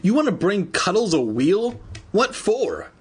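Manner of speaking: high, baffled questioning; incredulous cry. A narrator's reading. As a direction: question it in acted disbelief. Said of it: "Andy cried".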